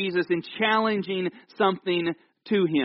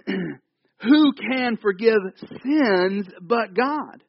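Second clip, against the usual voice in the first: slow indignant Pharisee; 3 semitones higher, much slower than usual. Acted. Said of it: "And it says".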